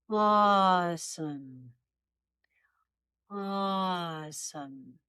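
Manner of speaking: very slow, relaxed awesome; slow open throat. Shown as a demonstration. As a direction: stretch out awesome slowly. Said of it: "Now say".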